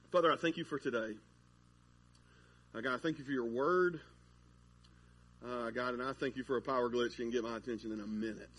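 low, soft prayer voice; spoken prayer. Real, not acted. Pastor praying before the message, low and soft. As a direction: pray quietly, pitched low.

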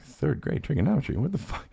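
high-pitched disbelief, speeding up; mock incredulous. Student reacting to the teacher's claim, high incredulous protest. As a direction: protest in exaggerated bafflement.

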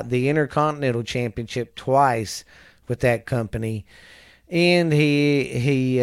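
projected, deliberate read-out voice; reading aloud. Real, not acted. Reading a wrestler's career history to a listener, reading aloud. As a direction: read it out like a biography report.

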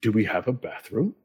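confused armor. Acted. GM voicing confused suits of armor.

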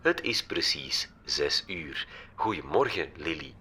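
lightly voiced assistant, clear and calm. A narrator's reading. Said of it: "Dat stemmetje antwoordde helder".

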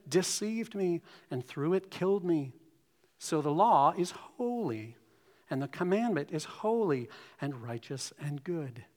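measured, deliberate scripture reading to the congregation. Acted. Pastor reading Romans to the church, solemn scripture voice. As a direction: read the passage with weight, line by line.

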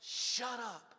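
rising to a loud, high furious shout; husband yelling at his wife while writing a sermon, furious and loud; angry yell. Retold or imitated. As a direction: snap at her, then blow up. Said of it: "I yelled at her".

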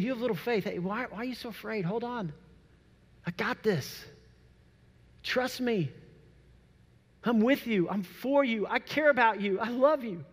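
calm them like a friend in the storm; reassuring Jesus. Retold or imitated. Jesus reassuring frightened disciples.

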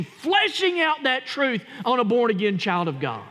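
ringing shouted climax; preaching shout. Real, not acted. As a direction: drive the truth home at full voice.

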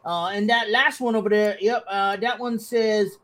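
lightly voiced game character reading notes aloud; Bodok. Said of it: "and goes".

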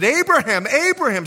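loud, high call of the name; calling from heaven. Acted. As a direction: cry out across a distance. Angel calls Abraham from heaven.

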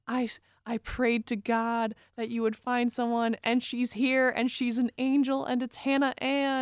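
a light impression of a mother praising her favorite; mom's gushing quote. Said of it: "she goes".

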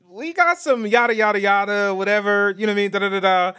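street talk. Shown as a demonstration. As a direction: loose buddy-talk patter. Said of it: "I can speak like that".

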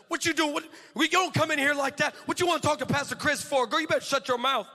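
high, sassy telling-off; spicy assistant. Retold or imitated. Salvadorian assistant confronts the woman storming in, spicy. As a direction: imitate a feisty assistant putting someone in their place. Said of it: "she comes with all the spicy".

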